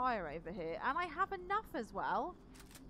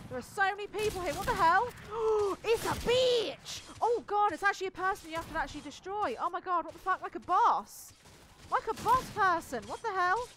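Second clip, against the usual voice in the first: terrified gibbering; 6 semitones higher, 9 dB louder than usual. Real, not acted. Panicked fight with boss.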